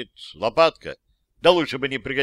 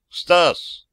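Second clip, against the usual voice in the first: calling out; 6 semitones higher, 6 dB louder than usual. Acted. Calling out again.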